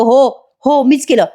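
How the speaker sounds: hammed-up villainous glee; gleeful mock confession. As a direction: own up with teasing, stretched words. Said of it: "उड्या मारून म्हणतो".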